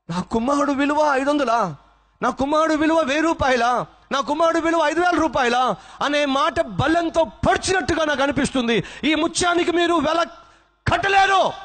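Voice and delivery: father telling master his son's worth can't be priced, anguished and high; anguished outcry. Acted. Grieving father's anguished climax.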